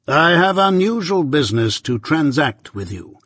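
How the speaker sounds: measured, stern lawyer, lightly voiced; Jaggers.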